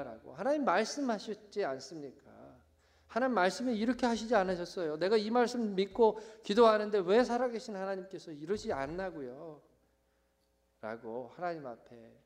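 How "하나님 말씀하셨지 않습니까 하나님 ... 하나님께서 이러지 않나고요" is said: higher, insistent appeal; pleading remonstrance; protesting to God. Acted. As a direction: argue earnestly with God over a promise. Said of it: "항변하는".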